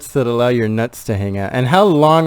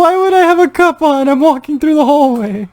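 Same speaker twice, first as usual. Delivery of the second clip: incredulous; 12 semitones higher, 4 dB louder than usual. Real, not acted. Incredulous protest.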